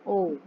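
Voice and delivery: ओ with rounded lips; clear, round "oh" on ओ. Shown as a demonstration. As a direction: make the mouth a circle for ओ. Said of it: "गोल हो जाएगा मुंह".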